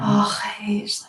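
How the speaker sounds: hushed, heart-touched exclamation; tender awe. Shown as a demonstration. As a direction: breathe it out as if at a sunset. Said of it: "Tenderness, or when you see a sunset".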